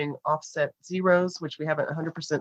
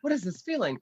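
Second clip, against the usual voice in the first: mock jittery higher inner voice; nervous jitters; 3 semitones higher than usual. Host recalling pre-show nerves, higher and jittery. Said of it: "I was like".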